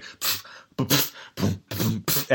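soft voiceless beatbox puffs; imitated beat. Podcaster imitating the freestyle backing beat, quiet beatbox puffs. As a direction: puff out a sparse beat with the lips. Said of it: "the beat's like".

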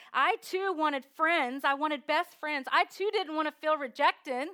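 Rahab's voice. Acted. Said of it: "she's saying".

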